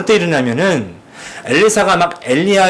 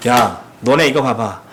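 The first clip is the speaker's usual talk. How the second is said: arrogant taunt; 3 semitones higher than usual. Retold or imitated. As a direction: lord it over the youths who mocked you. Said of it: "이랬다면요".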